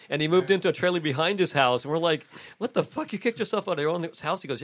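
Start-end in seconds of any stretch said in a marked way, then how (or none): 2.6-4.4 high-pitched incredulous question; retold disbelief. Friends questioning the man who evicted himself, mock disbelief. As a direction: jump up in pitch, baffled.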